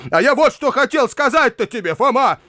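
high-pitched, pressing appeal; urgent appeal. A narrator's reading. Uncle tries to get through to Foma, urgently. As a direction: break in eagerly to be heard.

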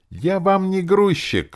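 shrieky she-demon protest; squealing. A narrator's reading. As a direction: squeal in indignant refusal. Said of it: "завизжала Настенька".

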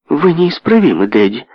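high, loud outburst at her father; shout. Acted. Amelia cries out at her father, loud. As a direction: cry it out at Daddy, indignant. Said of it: "закричала Амелия".

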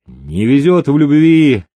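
bravely cheering himself up; cheerful, upbeat. A narrator's reading. Ruined gambler cheers himself on, forced cheerfulness. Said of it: "бодре сказал он".

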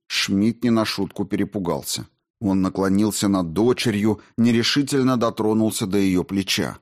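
ordinary talk, nothing marked

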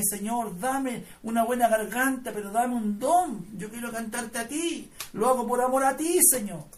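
earnest re-enacted prayer, insistent short appeals; retold tearful plea. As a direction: plead with God, without actual sobbing. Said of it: "Lloré al Señor".

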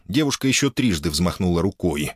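ordinary delivery

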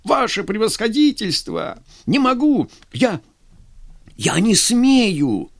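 frightened lieutenant pleading with his general; panicked pleading. Acted. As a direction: beg him not to make you shoot.

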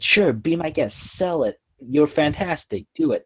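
lightly voiced, encouraging principal; approving principal. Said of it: "And she said".

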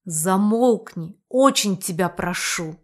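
slow words through gritted teeth; mild suppressed anger, forced out. Acted. Hero shushes his guide, muttering through teeth. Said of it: "процедил я недобрым словом".

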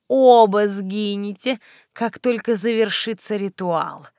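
ominous, leaning on оба; menacing threat. Acted. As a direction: press оба with grim glee. Necromancer threatens both. (угрожающе, с нажимом на «оба»)

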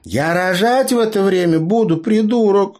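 high, loud exasperated snap; annoyed Tasya. A narrator's reading. Tasya snaps at Leo about the birth, high and loud. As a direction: snap at the clueless partner.

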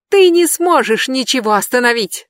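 high, loud defiant yell. Acted. Brandi yells down at Jeb, high shrieking yell. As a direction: scream it down the stairs. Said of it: "завопила она".

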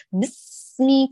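بسمي with the س dragged and stretched out; stretched sin. Retold or imitated. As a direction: drag out the س of بسمي. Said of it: "كأنك تسحبيها وتمطيها مطا".

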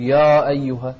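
يا أيها with a heavy, dark "yaw"; wrong thickened alif. Shown as a demonstration. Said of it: "لا تقول".

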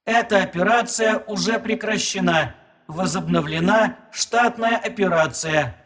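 quiet flat machine voice; computer processing. Acted. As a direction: speak like a calm computer. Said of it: "тихим механическим голосом".

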